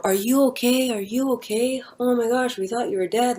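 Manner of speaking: high, anxious crowd voices asking if she's okay; lightly voiced panicky friends leaning over her; worried bystanders. Partygoers checking on the girl on the floor, worried high voice. People around her after seizure.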